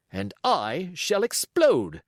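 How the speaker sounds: squire about to explode. Acted. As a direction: huff it out, barely holding in rage. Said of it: "he would say".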